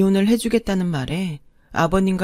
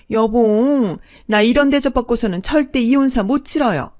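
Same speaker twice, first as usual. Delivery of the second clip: higher, louder offended outburst; indignant shrill in-law; 5 semitones higher, 6 dB louder than usual. A narrator's reading. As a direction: play the insulted fake mother-in-law. Second mother screeches indignantly. (높고 큰 소리로 발끈하는 둘째 어머니)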